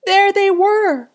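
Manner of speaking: high, loud gasp of surprise; as if the thing jumps out at you; shocked discovery. A narrator's reading. Underwear returns, shock.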